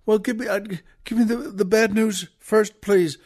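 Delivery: acted mild fluster, stumbling over the words; dazed and flustered. Husband choosing which news to hear first, dazed. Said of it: "his head is spinning".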